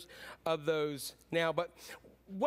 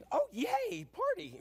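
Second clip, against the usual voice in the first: much higher mock cheer, sarcastic; slower than usual. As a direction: fake a happy yay you don't mean. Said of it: "How happy do you think that brother was".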